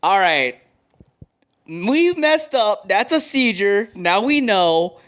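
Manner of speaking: high, slow, sheepish confession; mock Pope admitting a mistake. The Pope telling the church they were wrong about seizures, in a slow, high, hammed-up confession. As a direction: stretch it out like a Pope owning up to a blunder. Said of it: "The Pope is like".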